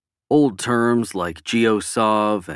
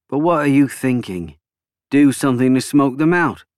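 higher, intense character voice; raised pitch, pressing a plan; Cole, intense politician; 4 semitones higher, 4 dB louder than usual. A narrator's reading. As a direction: voice an insistent prime minister pressing his point.

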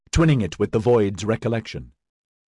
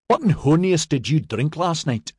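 demanding; 6 semitones higher than usual. A narrator's reading. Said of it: "Maxon demanded".

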